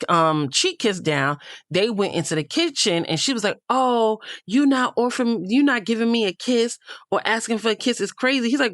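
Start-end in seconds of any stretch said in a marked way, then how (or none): 3.7-8.5 higher mock whine; imitating a pouty complaining girl; a higher, whiny take on her complaint. Mimicking Kenzie's complaint to Corbin.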